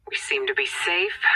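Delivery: soft whispered relief; relieved whisper. Acted. Handler telling the agent they are safe, whispered. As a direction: whisper it, barely breathing. Hiding from alien patrols.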